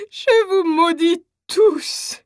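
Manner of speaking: slow, crying curse on everyone; slow tearful curse. Acted. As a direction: drag the curse out through sobs. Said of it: "La mère folle de désespoir".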